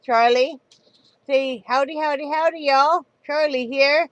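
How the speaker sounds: high excited pet voice. Real, not acted. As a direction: coo at the dog. Talking to the dog Charlie.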